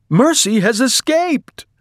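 very high, loud announcement; excited outcry. A narrator's reading. Missus Watson to her husband as Mercy leaves, excited cry. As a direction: exclaim it in astonishment.

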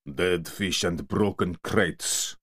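slow, big-voiced dock man; slow bear-like Yakut voice. Yakut greeting the two enforcers, slow heavy voice.

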